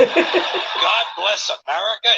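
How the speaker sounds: slow, drawn-out puzzled question; mocking question. Shown as a demonstration. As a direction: drag it out like a baffled query. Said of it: "Is that a request?".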